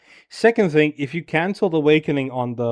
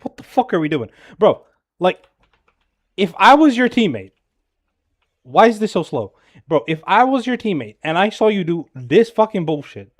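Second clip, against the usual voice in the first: higher, louder frustrated outburst at a teammate; exasperated rant; 3 semitones higher, 3 dB louder than usual. Real, not acted. Coach scolding a player's suicidal dive, exasperated and loud. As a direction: let the irritation boil over, pitched up.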